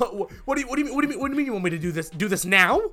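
incredulous, getting worked up; exasperated outrage. Retold or imitated. Acted outrage at salesman.

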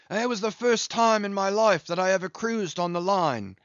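put-on a rueful old English whaler telling his loss; a hint of a weathered English captain; Englishman captain.

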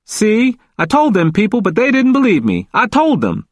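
high-pitched, insistent character voice; Walter, vindicated patient. A narrator's reading.

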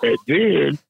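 lightly voiced, slowed-down stoned kid; slow stoned drawl. Quoting the hire listing his drugs to security, slow and dazed. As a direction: drag the words out like a dazed stoner.

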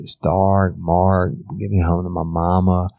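a hint of a frightened girl begging her captor; begging girl's voice. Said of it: "a representation of Caitlin's voice begging".

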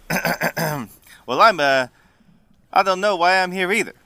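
Italian character slipping into Brooklyn; Brooklyn accent. Acted. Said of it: "got a Brooklyn accent".

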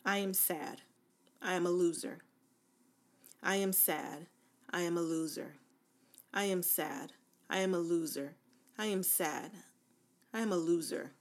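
quiet, deflated self-talk; slumped, mopey affirmation demo; dejected demo. Shown as a demonstration. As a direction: say it like you believe you're a loser. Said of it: "I want you to say this three times".

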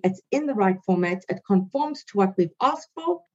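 lightly voiced stern schoolteacher; a touch of a teacher laying down rules; strict teacher voice. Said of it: "So that is my strict school teacher's voice".

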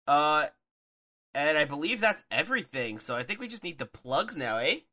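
lilting mock Canadian accent. Host wraps up the show, accidental Canadian accent. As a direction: slip into a playful Canadian accent with swooping tune. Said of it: "I don't know why I turned Canadian".

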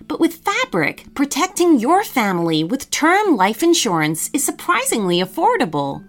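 upbeat sponsor read. Acted. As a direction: sell it like a radio ad. Podcast promo and sponsor ad.

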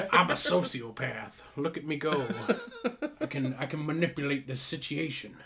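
hillbilly prospector voice; panning for gold hillbilly. Acted. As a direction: play a grizzly gold panner. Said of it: "I don't know what voice I started doing".

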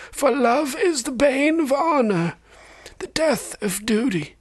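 put-on very high, slow old man's voice; old maester. A narrator's reading. Old maester teaching Jon about ravens and crows, aged voice. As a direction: play an aged scholar, drawn out and high. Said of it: "the old man answered".

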